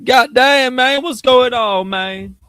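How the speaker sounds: frustrated outburst. Real, not acted. Streamer fed up with his video quality, loud frustrated yell. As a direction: blow up at the broken stream.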